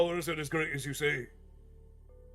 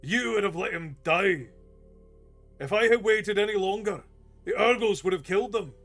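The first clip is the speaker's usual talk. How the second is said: higher, louder indignant retort; bristling anger; 7 semitones higher, 7 dB louder than usual. Acted. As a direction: fire back, hot with indignation. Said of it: "Oric bristled".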